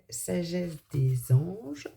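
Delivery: "sagesse des anges", both s sounds lisped slightly. Real, not acted. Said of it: "Pardon, je zozote".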